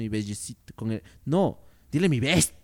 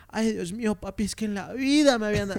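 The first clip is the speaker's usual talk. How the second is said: light mock Colombian accent, a bit higher; 5 semitones higher than usual. Mimicking a woman with a mild Colombian accent. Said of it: "pongámosle acento colombiano".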